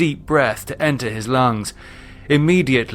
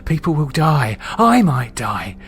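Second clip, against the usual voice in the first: higher, tense self-argument; anxious resolve; 5 semitones higher than usual. Acted. David argues he must kill Underwood, anxious and tense. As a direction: convince yourself, voice climbing under strain.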